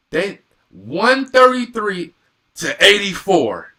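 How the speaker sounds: loud, emphatic score repeat; incredulous exclamation. Real, not acted. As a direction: punch out the numbers in disbelief. Repeats the blowout score in disbelief.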